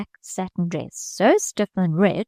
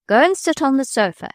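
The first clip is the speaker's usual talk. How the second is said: higher, louder command; sharp order; 7 semitones higher, 5 dB louder than usual. A narrator's reading. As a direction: bark the order at the child. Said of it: "ordered Ellen".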